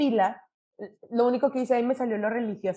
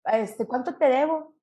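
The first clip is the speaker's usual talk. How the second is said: Monterrey slang; slower than usual. Retold or imitated. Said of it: "acá en Monterrey nos decimos así".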